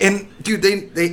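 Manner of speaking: high, loud, laughing through the words; laughing hard. Real, not acted. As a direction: crack up as you tell it. Laughing while telling gross story.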